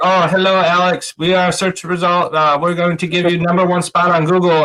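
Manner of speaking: terrible, unconvincing put-on Indian accent. Mimicking SEO callers phoning his business, in a bad Indian accent. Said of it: "That was a terrible, terrible Indian impression".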